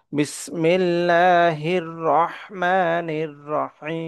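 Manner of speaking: রহমানির and রহিম with ha pressed in the throat. Shown as a demonstration. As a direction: press the ha sounds from mid-throat. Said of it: "গলায় চাপ দিয়ে পড়ব".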